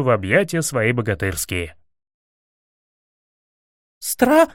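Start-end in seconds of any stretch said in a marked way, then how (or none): 4.0-4.5 sudden high cry, cut short; a cry for the guards choked off. A narrator's reading. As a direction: start to shout then clap a hand over the mouth. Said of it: "крикнула было Василиса".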